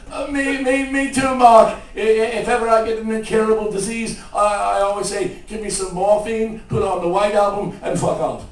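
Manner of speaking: high, loud, excited rock-star impression; a rock singer. Rock singer bonding over a band, excited stammering caricature. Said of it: "He goes".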